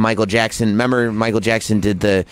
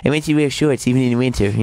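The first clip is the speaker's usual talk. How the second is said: quick put-on mock voice; impression of a singer. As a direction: keep up the comic impersonation, hurried.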